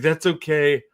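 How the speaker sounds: increasingly high boastful proclamation; mock heroine's self-introduction, rising in pitch; mock grand Faile. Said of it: "He's gonna be like".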